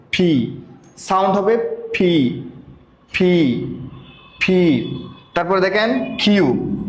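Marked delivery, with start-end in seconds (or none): 0.1-4.9 "ফি" with a breathy aspirated start; letter P with a puff. Shown as a demonstration. Teacher showing the new "ফি" for letter P. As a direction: push air on "ফি". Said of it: "এটা আজকে থেকে ফ হয়ে যাবে".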